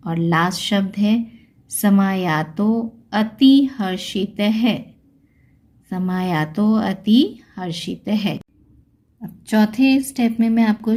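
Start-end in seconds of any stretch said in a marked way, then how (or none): 1.7-8.4 slow समायातो, then अति with a clear "a"; avagraha as a. Shown as a demonstration. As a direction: sound out समायातो अति हर्षित piece by piece. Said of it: "अ की आवाज़ आएगी". (धीरे-धीरे समायातो अति हर्षित, "अ" साफ़)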